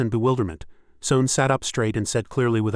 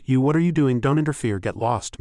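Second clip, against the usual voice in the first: screaming at him; 3 semitones higher, 3 dB louder than usual. Acted. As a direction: shoo off the intruder with a raised voice. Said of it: "she screamed".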